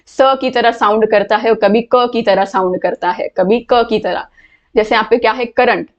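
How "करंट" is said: करंट starting with a k sound; hard c. Shown as a demonstration. Teacher illustrating the letter c, करंट with a k sound. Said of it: "क से sound हो रहा है".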